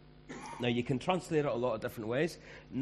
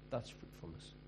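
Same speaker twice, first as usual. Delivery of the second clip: whispered again, slightly lower; soft whispered repeat; whispered echo; 3 semitones lower, 10 dB quieter than usual. Shown as a demonstration.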